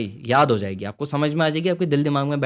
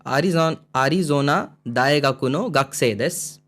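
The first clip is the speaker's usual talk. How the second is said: slow reading; slower than usual. Shown as a demonstration. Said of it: "reading dialogue slowly".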